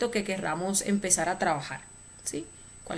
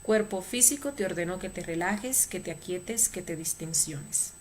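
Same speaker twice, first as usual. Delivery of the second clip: commanding drill-sergeant voice, fading at the end; military voice; 4 dB quieter than usual. Shown as a demonstration. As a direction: give the order like a soldier. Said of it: "con voz militar tres veces".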